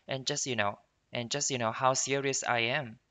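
"just you" run together as "jus-ya"; fast linked speech. Shown as a demonstration. Teacher showing the original's quick speech, linked "just you". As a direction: link "just you" and reduce the vowel of "you". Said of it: "就是读得很快的时候".

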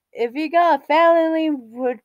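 a lightly put-on announcer-ish voice; odd put-on voice. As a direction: slip into a slightly silly character voice on "If you got a felony". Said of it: "why am I using that voice?".

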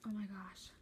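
breathless whispered wonder; a soft whispered reaction to a lovely scent; awed whisper. Real, not acted. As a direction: hush it out in awe. Reacting to a smell.

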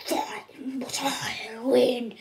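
slow, breathy menacing whisper; whispered villain taunt. Acted. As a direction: hiss the boast slowly. Bowser voiced taunting.

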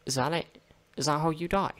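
loud baffled questions; can't believe it; disbelieving. Real, not acted. Puzzled by death in game.

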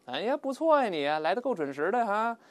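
high, loud mock admiration; heavy sarcasm. George praising someone four hours late, heavily sarcastic. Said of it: "带着深深的讽刺".

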